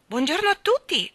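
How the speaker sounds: fussy lady hailing the neighbours loudly; noisy cordial greeting. A narrator's reading. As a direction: greet everyone far too heartily. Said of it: "con rumorosa cordialità".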